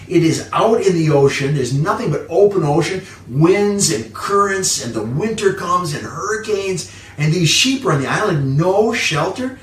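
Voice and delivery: fiery sermon build; intense preaching. Real, not acted. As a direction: paint the open ocean with rising force. Preacher describes storms on island.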